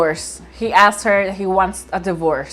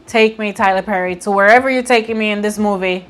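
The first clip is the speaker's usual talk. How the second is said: louder, eager inner voice; retold excitement; 4 dB louder than usual. Vlogger recalling her hopes for the movie, louder and eager. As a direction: gush like you're along for the ride. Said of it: "I was like".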